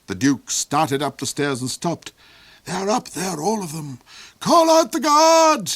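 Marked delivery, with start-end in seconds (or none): 2.7-5.8 high, loud barked command; barked order. Acted. The Duke barks at Hark to call the guards. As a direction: bark the order, rising to a shout. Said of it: "he barked".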